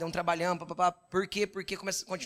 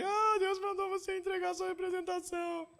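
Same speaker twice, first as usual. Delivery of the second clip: much higher voice, imitating his wife in tears; a retold wife's voice, pitched way up and teary; imitating tearful wife; 13 semitones higher, 3 dB quieter than usual. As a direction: mimic the wife's high, emotional plea. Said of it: "ela olhou chorando pra mim".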